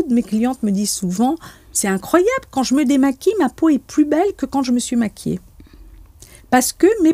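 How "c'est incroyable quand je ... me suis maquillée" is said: mildly voiced amazement, higher pitch; amazed clients. Quoting clients to the interviewer, amazed and higher-pitched. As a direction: quote a client marvelling, lifting the voice.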